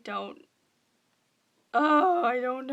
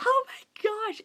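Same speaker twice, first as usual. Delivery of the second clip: excited whisper; 9 semitones higher, 3 dB louder, slower than usual. Real, not acted. Fan gasps over the book.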